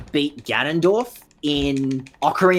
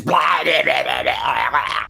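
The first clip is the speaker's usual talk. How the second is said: horrible zombie noises; much slower than usual. Pretend. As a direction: moan like a mindless zombie. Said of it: "making horrible zombie noises".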